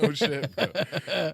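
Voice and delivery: laughing through the words. Real, not acted. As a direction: giggle out the words. Laughing reply.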